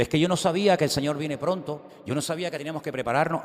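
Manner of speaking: high, quick pleading of innocence; whiny excuse. Retold or imitated. Driver excusing himself to the officer, high and fast whining. Believer pleads ignorance of Lord.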